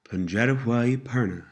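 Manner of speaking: slightly slowed, careful model phrase; measured teaching pace. Shown as a demonstration. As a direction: say it a little slowly for learners. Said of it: "Pronounced a little slower".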